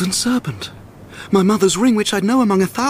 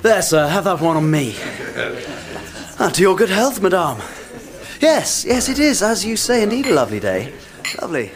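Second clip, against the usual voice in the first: forced cheer. Acted.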